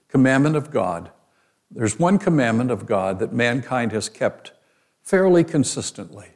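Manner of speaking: ordinary delivery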